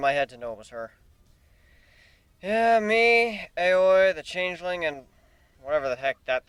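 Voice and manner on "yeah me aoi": emphatic. Acted. Character calling out.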